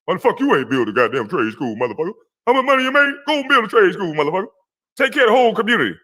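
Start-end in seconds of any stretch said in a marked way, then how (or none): 2.5-6.0 heated outburst. Real, not acted. Angry rant at rival.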